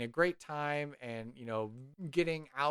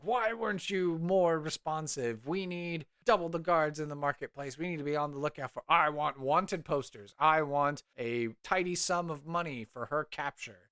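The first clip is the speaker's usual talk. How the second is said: mildly raised, pompous scolding; berating; 4 semitones higher than usual. Acted. Mayor to his guards, berating. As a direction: demand answers in acted indignation. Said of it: "he's berating his guards".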